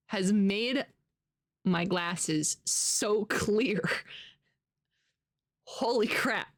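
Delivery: slow, awed whisper. Real, not acted. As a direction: breathe it out in wonder. Amazed at clean glasses.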